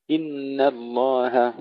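إن الله with thin N and H; light nun and ha. Shown as a demonstration. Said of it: "ترقيق النون والهاء". (ترقيق النون والهاء)

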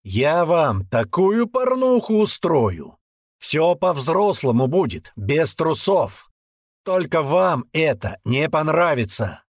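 slow, high, loud menace; a drill sergeant's menacing promise; menacing threat. Acted. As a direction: threaten them slowly and loudly. Threatening shout at teens.

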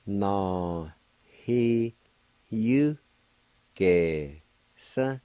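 "Na, he, you, ge, sa" each syllable set apart with pauses. Shown as a demonstration. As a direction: break "Na, he, you, ge, sa" into clean syllables. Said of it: "It's pronounced like this".

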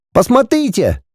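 put-on high child's call; boy calls parents, excited; little boy calling. A narrator's reading. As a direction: call out to mum and dad.

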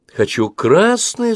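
put-on high, slow whiny child demanding; a sulky six-year-old insisting; whining spoilt child voice; capricious little girl. A narrator's reading. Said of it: "закапризничала Анжела".

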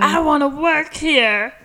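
high-pitched mock plea; retold pleading. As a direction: imitate an eager, desperate plea.

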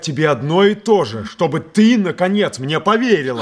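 rising, pleading exasperation; exasperated. Acted. Actor, fed up, insists Polina believe him. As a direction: make her believe you at last.

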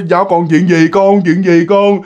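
lightly acted parent coaxing a child; worried parent. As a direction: gently press a crying child to talk. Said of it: "vuốt mày nó".

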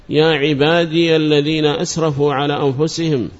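يا عبادي said as "ya ibādiya"; opened final ya. Shown as a demonstration. Teacher quoting scripture as example, يا عبادي ending in -iya. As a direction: voice the ya of يا عبادي with a short a. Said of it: "إثباتها مفتوحة".

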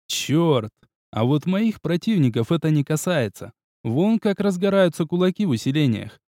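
ordinary delivery, nothing marked

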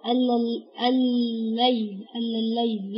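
الليل stretched slowly with a lingering extra lam; wrong drawn-out pronunciation. Shown as a demonstration. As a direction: drag out ال- then الليل, sounding the lam. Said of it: "لا ما كانتش هيبقى فيها لام زيادة". (نطق بطيء خاطئ مع لام زائدة)

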